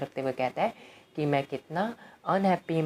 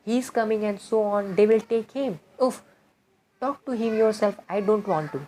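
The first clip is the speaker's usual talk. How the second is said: raised, fast panicked reading; agitated shout; 6 semitones higher, 3 dB louder, much slower than usual. Acted. Chubukov panicking at his daughter, raised voice. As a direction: blurt it out in a fluster.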